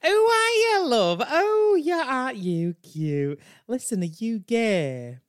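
loud, high Yorkshire coo, vowels dragged out; overbearing flirt with a strong Yorkshire accent; slow, gushing Yorkshire bar-fly; Brenda. Acted. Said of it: "she has such a strong Yorkshire accent".

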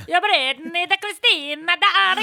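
sing-song mockery of her pop idols; teasing listing of divas; mocking list. Mocking friend's pop tastes.

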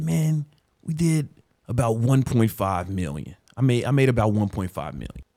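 mildly cocky retelling of his own boast; a touch of swagger; arrogant. Retold or imitated. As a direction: act smug about the money. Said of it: "as arrogant as I said it".

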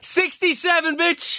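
crowing it high and triumphant; gloating. Real, not acted. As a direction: rub it in with glee. Gloating over the win percentage.

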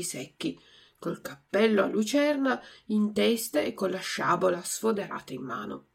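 ordinary delivery

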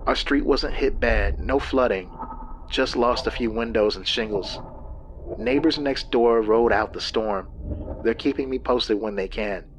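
a hint of a tired wife; lightly voiced, worn-out woman; weary woman. Lynn's voice in story.

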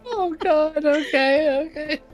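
exasperated disbelief. Real, not acted. GM reacts to bold player move.

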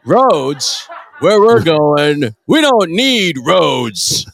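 slow, dragged-out Doc Brown quote; lightly voiced movie line, slowed. Co-host quoting Back to the Future, lightly voiced. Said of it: "you got me on all the fucking quotes".

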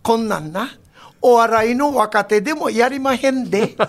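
lightly voiced old rakugo master, slow; a hint of Beicho's leisurely storytelling; imitating Beicho. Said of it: "米朝藩がいつも番組で".

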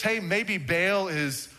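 a slow teasing jab at Baal's prophets; sarcastic taunt. Retold or imitated. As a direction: jeer at the prophets. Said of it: "He went there".

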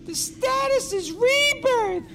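high, slow, wailing madman proclamation; slow theatrical villain menace. Acted. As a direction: proclaim it like a deranged prophet. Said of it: "He's gone fucking crazy".

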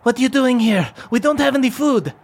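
high, far voice of a wary dwarf through a peephole; wary voice behind the door. Acted. Dwarf behind iron door questions the party, high and wary. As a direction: call out suspiciously through the grill. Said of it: "you hear a voice go".

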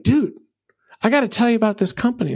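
bursting to share a great find, fast; an eager fan buttonholing his friend; fired-up customer. Retold or imitated. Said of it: "is all fired up".

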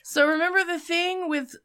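hushed and breathy; whispering. Real, not acted. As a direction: drop to a whisper. Sudden whisper.

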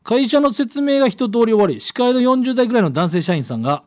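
clear, projected radio letter read; storytelling read-aloud voice. A narrator's reading. Reads out listener's letter.

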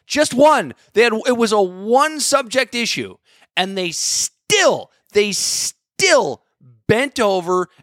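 real exasperation, pitched high throughout; indignant rant. Real, not acted. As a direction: argue it hotly, voice riding high with hard emphasis. Indignant rant about the squad.

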